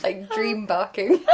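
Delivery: laughing through the words; giggling as she says it. Real, not acted. Laughing while describing dog.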